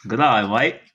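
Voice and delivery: mock Australian accent; hammed-up Aussie greeting. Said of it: "You wanna hear my Australian accent?".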